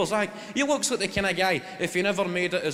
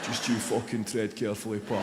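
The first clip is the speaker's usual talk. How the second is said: menacing fan; 8 semitones lower, 3 dB quieter than usual. Retold or imitated. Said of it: "People going".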